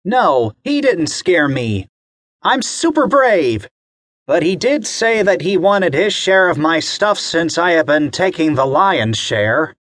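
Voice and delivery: a kid acting brave; proud boy. Bobby assuring mommy he is brave, high voice. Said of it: "Bobby shook his head".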